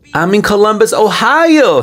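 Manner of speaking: hammed-up defiant bragging; mock angry boast. Narrator voicing the man bragging where he lives, mock angry. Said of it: "he's angry".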